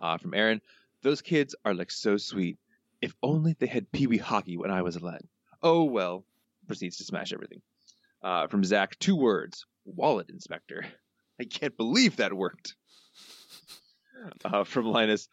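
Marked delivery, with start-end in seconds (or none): 1.0-6.2 lightly voiced cartoon crook; a hint of a cartoon crook; Snake. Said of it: "your best snake voice". 9.0-12.8 slow, lightly voiced cartoon crook; a hint of crook, words drawn out; Snake. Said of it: "your best snake voice".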